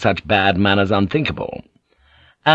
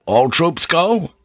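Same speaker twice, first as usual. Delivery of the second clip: uneasy higher, slow question; perturbed question; 7 semitones higher, slower than usual. A narrator's reading. Blackthorn asks Omi if the troops are leaving, perturbed. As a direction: ask it slowly, pitched up, troubled.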